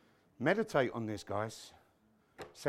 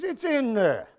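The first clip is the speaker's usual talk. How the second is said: raised-pitch mock papa reply; Italian papa; 5 semitones higher, slower than usual. Papa reassuring son about onions, mock Italian dad. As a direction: answer as the commercial dad. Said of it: "He says".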